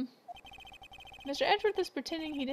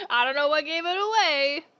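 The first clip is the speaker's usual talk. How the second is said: laughing; 3 semitones higher, 7 dB louder than usual. Real, not acted. Player laughing at the game.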